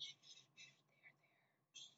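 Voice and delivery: soft shushing, there, there; hushing whisper. A narrator's reading. Louise comforting weeping Cook in a hushing whisper. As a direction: soothe her in a whisper.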